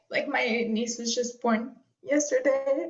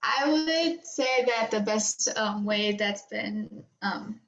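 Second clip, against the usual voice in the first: holding back tears. Real, not acted. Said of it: "I'm really so emotional".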